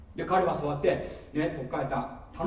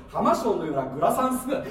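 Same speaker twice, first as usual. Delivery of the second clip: loud, punchy read of 浜章のようなグラサン姿; amazed re-reading; 2 semitones higher, 7 dB louder than usual. Real, not acted. Speaker re-reading the photo caption, amazed and loud. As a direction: hit 浜章 and グラサン hard and loud.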